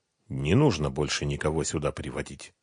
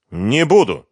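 firm refusal; 5 semitones higher, 7 dB louder than usual. A narrator's reading. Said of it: "твёрдо сказал Ренат".

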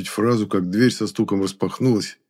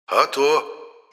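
exclaiming; 6 semitones higher than usual. A narrator's reading. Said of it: "воскликнул Моня".

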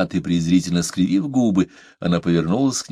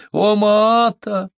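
calling after her; 14 semitones higher, 5 dB louder, much slower than usual. A narrator's reading.

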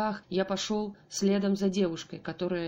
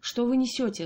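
loud, higher enraged retort; furious; 5 semitones higher, 5 dB louder than usual. A narrator's reading. Father enraged by the doctor's excuse, furious shout. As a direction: snap back at the doctor in fury. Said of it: "озверел я".

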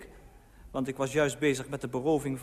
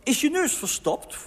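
high, raised-voice question; calling out; 10 semitones higher, 4 dB louder than usual. A narrator's reading. Wife calls up to husband about his nose, high calling. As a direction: holler it up from another room. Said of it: "riep mijn vrouw".

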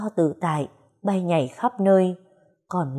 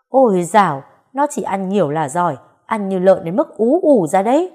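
loud scornful dismissal; 5 dB louder than usual. Acted. Ông Tư loudly scoffs at Bà Bảy's praise of the girl. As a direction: burst out loud, brushing it off with scorn.

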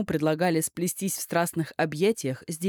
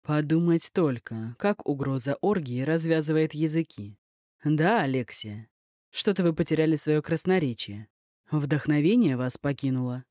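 snide. Acted. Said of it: "проговорил ехидно".

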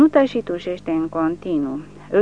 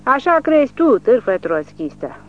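much higher and louder, relishing his rage; gleeful angry yell; 7 semitones higher, 7 dB louder than usual. A narrator's reading. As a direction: yell the insult, enjoying the anger. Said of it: "țipă el, simțind cum îl cuprinde o mânie agreabilă".

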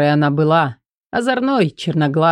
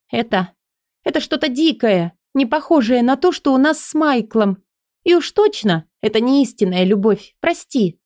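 Элли's voice; 6 semitones higher than usual. Acted. Элли voiced, higher.

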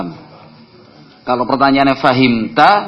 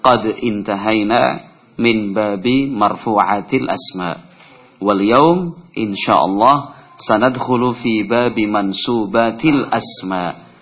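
a bit faster; slower than usual. Shown as a demonstration. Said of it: "Kalau rada cepetnya walhamdulillah".

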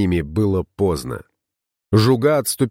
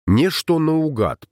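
amazed; 7 semitones higher, slower than usual. A narrator's reading. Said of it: "поразился Реслав".

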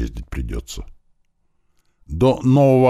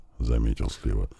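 ordinary delivery, nothing marked

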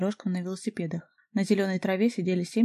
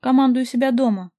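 loud, higher barked retort; angry bark; 5 semitones higher, 8 dB louder than usual. A narrator's reading. Stranger barking back at the jealous caller, loud and angry. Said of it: "рявкнул оппонент".

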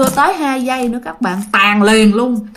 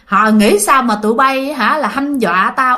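demon's reply; 2 semitones higher than usual. Retold or imitated. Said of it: "cái con quỷ đó nó còn trả lời".

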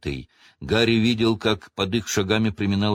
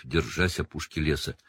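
plain reading voice

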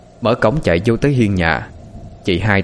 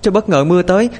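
higher, tearful voice on the edge of crying; whimpering; 10 semitones higher than usual. A narrator's reading. Girl tells the neighbor her brother is missing, higher and whimpering. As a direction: answer while trying not to cry. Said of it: "nhỏ Hiền miếu máu".

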